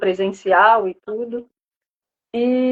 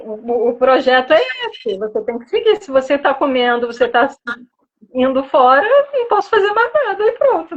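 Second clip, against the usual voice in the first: imitating a stern nutritionist; 2 semitones higher than usual. Retelling how a past nutritionist scolded her, mock stern and fast. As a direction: rattle off the scolding like an impatient expert. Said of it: "Falar assim".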